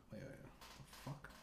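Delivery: under his breath. Real, not acted. Losing his place reading aloud.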